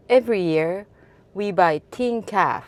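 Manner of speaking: imitating a New Zealand accent, "ten" as "teen"; lightly imitated New Zealand accent. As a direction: retell it with a hint of Kiwi vowels. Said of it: "in New Zealand accent".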